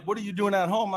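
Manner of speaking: high mocking whine; mocking her. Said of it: "She's like".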